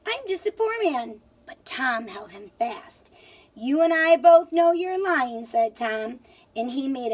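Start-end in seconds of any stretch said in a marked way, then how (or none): 0.1-1.2 higher whiny plea; whined. Acted. Leprechaun whining to Tom, lightly higher. 3.5-5.4 louder, higher stern charge; fierce accusation. Acted. Tom accusing the leprechaun of lying, louder.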